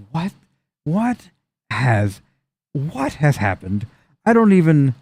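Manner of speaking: dazed, halting disbelief; acted stupefied muttering, word by word; shell-shocked. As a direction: break it up with stunned pauses. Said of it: "shell-shocked".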